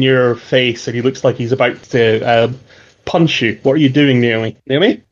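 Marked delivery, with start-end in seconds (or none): none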